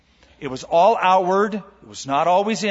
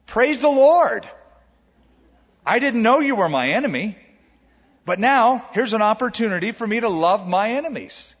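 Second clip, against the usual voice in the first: the pastor answers his enemy with joyful praise, higher and louder; 6 semitones higher, 4 dB louder than usual. Retold or imitated. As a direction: burst out in glad praise.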